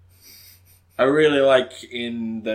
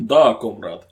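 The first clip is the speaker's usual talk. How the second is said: mock Russian accent; 5 dB louder than usual. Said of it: "I can't do Russian".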